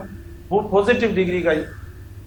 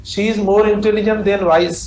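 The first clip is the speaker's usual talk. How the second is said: slow dictation; much slower than usual. Shown as a demonstration. Student's question voiced.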